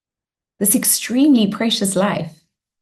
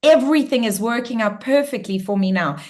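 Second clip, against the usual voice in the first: firm, bold reply; 3 semitones higher than usual. Shown as a demonstration. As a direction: shoo the monkey mind off with conviction. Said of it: "you go".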